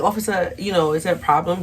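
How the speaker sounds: lightly affected, quick polite question; a hint of Karen addressing police. Teen speaking up to the officer, light Karen voice. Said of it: "that Karen voice".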